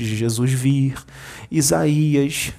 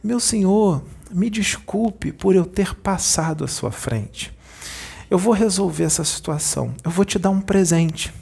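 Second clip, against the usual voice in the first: calm; 5 semitones higher than usual. Retold or imitated. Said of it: "Jesus virou pra ele calminho".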